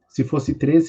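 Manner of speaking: usual speaking voice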